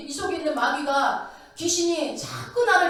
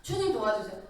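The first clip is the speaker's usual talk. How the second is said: desperate plea; 5 semitones lower than usual. Shown as a demonstration. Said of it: "애타는 마음이 있을 때는".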